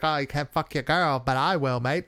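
a bad Australian accent that slips toward Canadian; badly faked Australian bloke voice; Canadian-sounding Australian. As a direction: try for Aussie, land in Canada. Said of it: "making it sound kinda Canadian".

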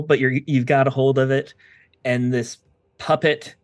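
slow, vivid scene narration; game master narration. Acted. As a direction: paint the fight's end for the players.

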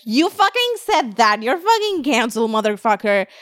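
mock-angry callout, slowed. Her old nitpicky self cancelling someone. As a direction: sneer it like a petty accuser. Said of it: "I used to be very nitpicky".

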